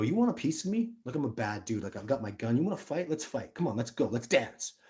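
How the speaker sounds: daring the bear to fight, swaggering; cocky challenge. Retold or imitated. To a grizzly bear, a young hothead's mock challenge. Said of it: "young, dumbass attitude".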